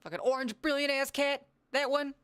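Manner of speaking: high, loud excited squeal; excited shout. Real, not acted. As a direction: squeal with delight at the cat. Excited shout at cat on stream.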